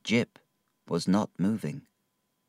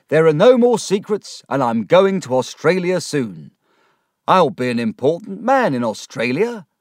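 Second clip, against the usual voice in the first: exultant boasting; 8 semitones higher, 6 dB louder than usual. Acted. Micawber rejoicing about Australia.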